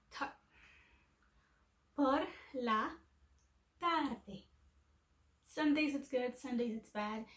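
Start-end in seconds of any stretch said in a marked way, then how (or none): 0.1-4.4 American twist. Shown as a demonstration. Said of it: "a little American twist to it".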